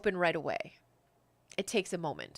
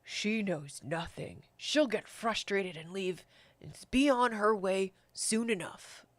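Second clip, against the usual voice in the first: first voice again; slower than usual. Acted. First voice answers the angry one.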